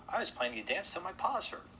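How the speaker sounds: high little shrew grumble; complaining. A narrator's reading. Disappointed shrew protesting to the host, high complaint. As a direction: whine about it up high. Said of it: "complained the shrew".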